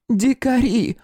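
высокий медленный старушечий окрик; укоризненно крикнуть с балкона по-бабушкиному; старушка кричит из окна. A narrator's reading. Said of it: "закричала с третьего этажа". (бабулька кричит хулиганам с третьего этажа, высоко и протяжно)

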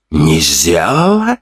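медленно, с подъёмом на «сделала»; переспросить с ледяной издёвкой; злой переспрос. Acted. Главарь переспрашивает со злостью. (главарь переспрашивает слова Тима, холодно и с вызовом)

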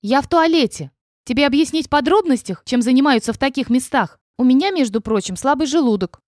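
mock sickly protest. A narrator's reading. Heroine fakes illness to dragon.

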